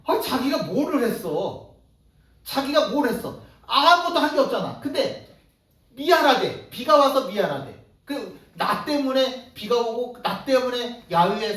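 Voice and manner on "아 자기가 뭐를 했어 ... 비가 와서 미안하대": higher and louder in disbelief, with a laugh; incredulous. Real, not acted. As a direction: exclaim at how absurd it is. Preacher's incredulous exclamation. (어이없다는 듯 높고 크게)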